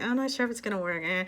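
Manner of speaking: quick, mock-doubtful mumble with a shrug; wishy-washy. Imitating a doubter of the method, wishy-washy. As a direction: toss it off half-convinced. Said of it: "and no wishy-washy".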